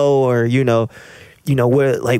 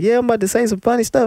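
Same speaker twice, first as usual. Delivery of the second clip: put-on high, quick little kid voice; 11 semitones higher, faster than usual. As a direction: chirp it like a small kid. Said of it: "I had the little kid voice too".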